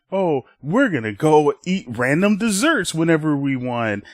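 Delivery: lightly hammed-up adult boasting; imagined gleeful grown-up. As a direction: play a child's idea of carefree adults. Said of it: "So, in Ruby's head, she imagines".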